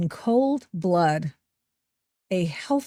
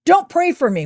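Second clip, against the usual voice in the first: mock screecher; 8 semitones higher, 6 dB louder than usual. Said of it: "yell at her".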